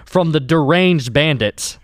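announcer voice. Acted. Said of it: "You want me to do my announcer voice?".

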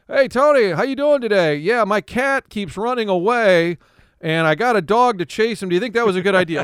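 high, loud goofy caller; dumb caller voice. Retold or imitated. A caller asks Tony a dumb question, high and goofy. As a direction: play the silly caller to the hilt. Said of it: "where the caller's like".

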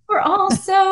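high, bubbly and eager; excited office voice. Retold or imitated. Adoption office worker thrilled to report the match, excited. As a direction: gush it like a thrilled receptionist. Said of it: "she was so excited".

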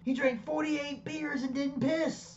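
high, slow, stunned retelling; retold disbelief. Telling a wrestling story, stunned that Andre never needed the toilet. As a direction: play up the shock at the feat. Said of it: "He's like".

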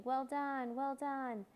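excited shout. A narrator's reading. Signpost congratulating the boy as it jumps about, excited shout.

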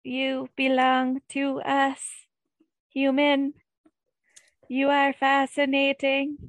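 slow, even robot voice; robot alien voice. Pretend. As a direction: speak like a flat robot alien. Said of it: "They don't talk like a fucking robot".

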